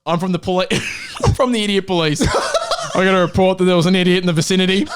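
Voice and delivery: lightly voiced policeman, laughing, fast at the end; a policeman who answers the idiot alarm. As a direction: play a cop on official business. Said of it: "it's my police voice".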